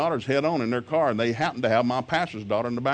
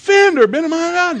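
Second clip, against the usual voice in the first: scream, higher-pitched and louder; 11 dB louder than usual. Retelling arriving at a wrecked car, imitating past yell. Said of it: "I'm just screaming".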